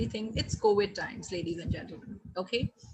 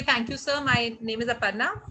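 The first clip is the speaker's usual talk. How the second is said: eager waiter dropping their name for a tip; a mild hint of a waiter fishing for tips; tip-fishing waiter line. Shown as a demonstration. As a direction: say thanks, then slip in the name so the guest tips. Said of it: "we never say".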